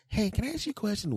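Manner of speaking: high, soft put-on voice; light high-voiced request; inquiring stranger. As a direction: ask timidly, pitched far up. Imagined stranger asking for advice.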